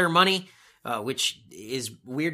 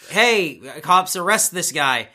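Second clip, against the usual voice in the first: raised-voice retold order; Stephanie; 2 semitones higher, 7 dB louder, slower than usual. Podcaster retelling Stephanie ordering the cops, raised voice. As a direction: call out to the cops, mildly loud. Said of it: "Stephanie comes down to her music and says".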